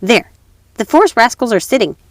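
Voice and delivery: put-on robber girl. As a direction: robber girl claiming her guest.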